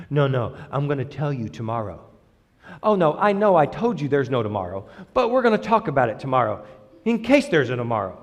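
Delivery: soft, low put-off; mock God stalling. Mock God putting off a prayer, soft and low. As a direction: pretend to hedge quietly about tomorrow.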